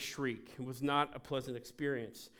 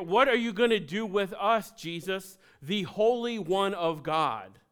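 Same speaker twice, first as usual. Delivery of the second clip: nervous demon; 3 semitones higher, 6 dB louder than usual. Retold or imitated. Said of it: "Did you hear them?".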